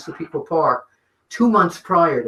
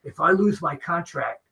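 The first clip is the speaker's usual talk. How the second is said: a hint of a gruff wrestler threatening; Randy Savage; 3 semitones higher than usual. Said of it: "worst Savage impression I've ever".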